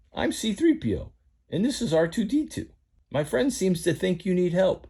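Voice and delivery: high, prim robot butler; C3PO greeting strangers, high and prim; fussy droid voice. Acted. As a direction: sound like a nervous golden droid. C three P O speaks.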